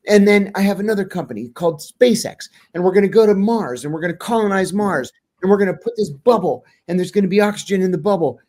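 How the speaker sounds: mimicking a tech founder gushing about Mars; retold excitement. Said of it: "he gets really excited".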